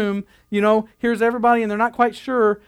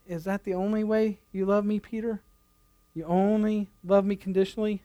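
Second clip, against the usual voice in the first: gentle Jesus; 6 dB quieter than usual. Retold or imitated. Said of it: "I can really hear Jesus saying".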